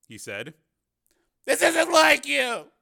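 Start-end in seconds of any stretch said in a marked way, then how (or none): 1.5-2.7 high, slow, loud reproach; upset protest. A narrator's reading. Cameraman reproaches his partner for secrecy, upset protest. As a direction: cry out in exasperation.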